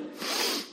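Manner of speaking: sharp sniffing breath; whiff. Shown as a demonstration. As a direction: sniff the air for bacon. Demonstrates one whiff of bacon.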